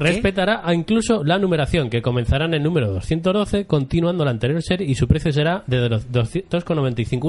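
formal newsreader delivery; voz de noticias. Acted. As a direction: read it as a news bulletin. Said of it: "¿sigue con esa voz?". (voz de telediario)

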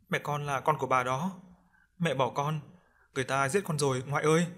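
a hint of a whimpering little ghost; pleading ghost child. Ghost child begs grandmother for help, lightly pleading.

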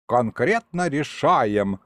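slow, mocking parrot of the imp; mocking mimicry. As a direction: mimic him to mock. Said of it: "передразнил дед".

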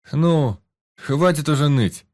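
loud, high, slowed mock-scold; scolding friend. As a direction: tell him off with rough affection. Friend scolds the whining hero.

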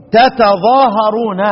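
تتظاهرون with both ت sounded, slowly; original form. Shown as a demonstration. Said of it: "يقرأ إيه؟". (قراءة تتظاهرون بتاءين)

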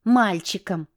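wife mimicking her ex; mocking mimic. A narrator's reading. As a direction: throw his word back at him. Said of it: "передразнила я".

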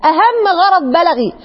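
ordinary talk

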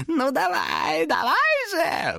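high shrieking demon goading. A narrator's reading. Demon shrieks at Thomas to strike. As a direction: screech it out, egging him on. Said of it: "взвизгнул он".

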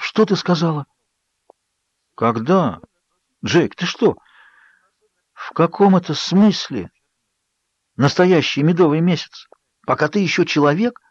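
can't believe what he just heard; horrified disbelief. Acted. Jacob confronts Bella in horrified disbelief.

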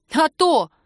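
high, loud, pleased retort; smug. A narrator's reading. Woman to lover she has teased, smug. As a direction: crow with a satisfied smirk. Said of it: "усмехнулась Кира довольно".

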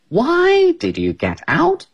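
put-on very high, slow childlike question; the kangaroo asking Amy why she left the pool; puzzled question. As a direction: ask in a tiny innocent voice. The speaker asks, puzzled.

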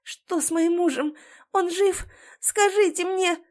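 high, rising pleading; wife begging medics for news of her husband; frantic questioning. A narrator's reading. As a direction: demand an answer in fear.

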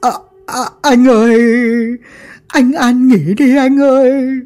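high, slow mock sobbing; a henchman keening for his dead boss, high and slow; wailing lament. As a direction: wail over the grave, hamming up grief. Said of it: "Hoàng quỳ xuống khóc lóc".

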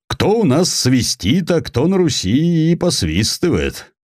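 выше, с хитрецой; слегка сыгранная казачья загадка; лукавый атаман. A narrator's reading. Атаман отвечает иносказательно. (атаман лукаво отвечает князю)

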